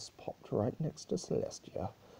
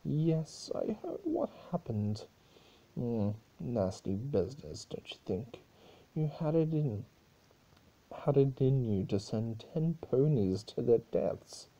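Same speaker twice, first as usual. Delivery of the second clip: higher needling chaos-spirit voice; Discord, higher voiced; 4 semitones higher than usual. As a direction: twist the knife with mock sympathy.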